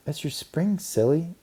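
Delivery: put-on high teasing girl voice. A narrator's reading. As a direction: brush her off lightly. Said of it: "said another girl".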